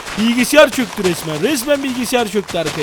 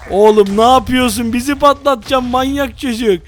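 exasperated; 2 semitones higher, 4 dB louder than usual. Real, not acted. Friend keeps blowing him up.

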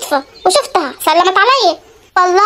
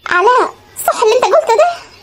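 tearful cry, higher in pitch; wife sobbing at husband; 4 semitones higher than usual. Acted. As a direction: break down as you ask. Wife breaks down, crying.

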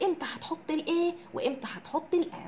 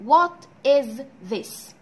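very slow model; 7 dB louder, much slower than usual. Shown as a demonstration. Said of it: "teacher models the question".

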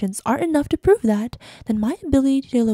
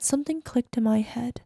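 whisper; 5 dB quieter than usual. Acted. Realisation in voicemail.

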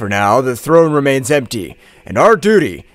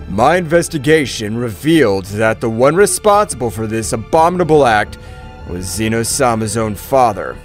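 measured, lower delivery of a grim finding; 7 semitones lower than usual. A narrator's reading. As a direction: report it solemnly, keep composed. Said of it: "with his usual calmness".

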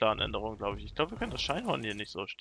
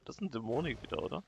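ordinary talk, nothing marked

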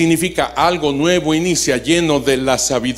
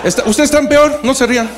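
laughing; 8 semitones higher, faster than usual. Real, not acted. Priest teasing the laughing audience, laughing.

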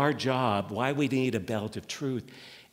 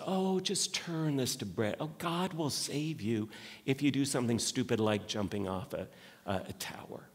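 Satan tempting; 6 dB quieter than usual. Retold or imitated.

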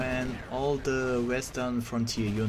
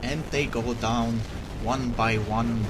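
put-on Russian accent. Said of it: "wannabe Russian voice acting impression by me".

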